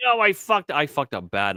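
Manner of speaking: half-hearted oh-no panic; mock panic. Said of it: "I'm like".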